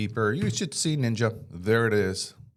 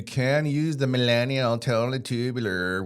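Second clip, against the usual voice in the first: LA valley speak; 2 semitones higher than usual. Pretend. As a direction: make fun of the LA 'totally tubular' crowd. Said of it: "I'm talking like this because I was making fun of people".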